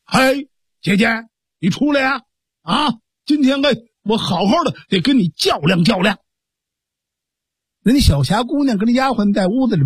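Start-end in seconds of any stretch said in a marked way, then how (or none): 0.0-6.2 raised, higher call to his sister, taunting. Acted. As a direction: yell out a cocky challenge from the courtyard. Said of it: "他喊开了".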